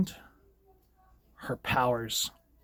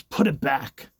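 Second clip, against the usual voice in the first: louder commanding yell; mock scream; 5 dB louder, slower than usual. Xavier ordering Wanda, a louder mock yell. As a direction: order her sharply to put it back. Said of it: "Xavier just screams".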